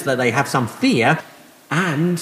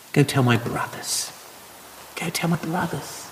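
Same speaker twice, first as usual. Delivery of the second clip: tender repetition; 7 dB quieter than usual. Shown as a demonstration. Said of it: "what a lovely word that is".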